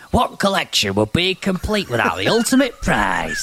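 mock-villain line in Burnley dialect; Burnley accent. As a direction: ham it up in a broad Burnley accent. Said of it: "I'm going for Burnley".

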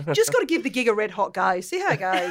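imitated Aussie twang; Australian accent. Showing off to an Australian guest, in Aussie accent. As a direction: put on a casual Australian accent. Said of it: "I love your accent".

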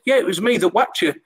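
high amateur Scouse imitation; retold in a mock Scouse accent; Tony Warner, rough Scouse. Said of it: "This Scouse accent. I'm not good with Scouse accents".

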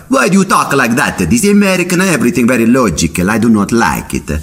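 high, grumbling mock Pope with broken English; grumpy Italian Pope. Pope grumbling at the logical American, high mock accent. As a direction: complain like a fussy old Pope. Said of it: "And the Pope's like".

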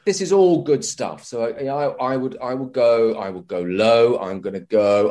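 usual speaking voice

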